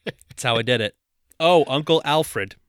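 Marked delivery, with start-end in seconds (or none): 1.4-2.5 slow, put-on British niece; hammed-up British greeting to an uncle; mock British accent. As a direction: lay on a drawn-out British accent. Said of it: "in my British accent".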